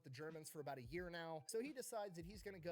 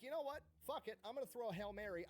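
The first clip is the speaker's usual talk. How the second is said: higher, louder hyped-up resolve; fired-up decision; 4 semitones higher, 3 dB louder, faster than usual. Retold or imitated. The spy psyching himself up before a big gamble, higher and louder. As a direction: pump yourself up to go all in.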